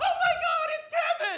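very high, screaming fangirl squeal. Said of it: "you hear a woman screaming".

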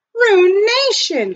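crying out, very high. Asked if he is all right, Jack cries out. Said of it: "cried Jack".

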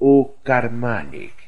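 murmuring, muttered under the breath. Hearing an account of a wedding letter, the listener murmurs. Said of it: "murmurou Poirot".

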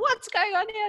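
very high, freaked-out, frantic crazy outburst. The speaker recalls walking into a son's messy room: retelling freaking out. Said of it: "I just went batshit crazy. I was like".

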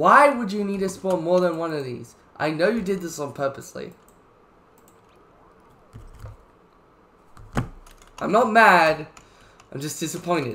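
angry, audibly mad voice. Speaker scolds someone, and a listener says they can hear it; angry. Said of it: "You're definitely mad. I can hear it".

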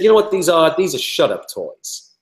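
put-on New York accent. Retelling what a man from new york said to him, in a put-on new york accent. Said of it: "He was from New York".

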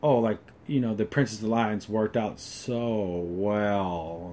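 put-on disinterested drone. Imitating how a princess character talks in long scenes, mock-disinterested monotone. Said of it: "Everything is disinterested, and I talk like this".

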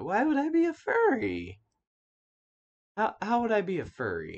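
mock overplayed sarcastic tone. Retelling jokingly denying being a furry: mock-sarcastic, overplayed tone. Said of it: "make it like completely sarcastic".

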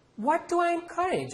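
very high, loud, insistent, demanding tone. The narrator's mother, blamed by his father, answers back, demanding. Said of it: "Amma demanded".

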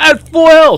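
high, loud outraged yelling.

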